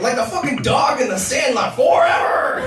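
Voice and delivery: high shouted punchline; shouted quote. Retold or imitated. Comic shouting back at Bob, mock shout. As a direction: yell the Sandlot line. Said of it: "I was like".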